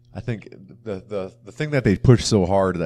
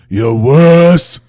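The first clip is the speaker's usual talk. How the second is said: loud, high, hammed-up Russian villain; bad Russian accent; 7 semitones higher, 16 dB louder than usual. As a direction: bark it like a cartoon Russian baddie. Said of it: "he's like".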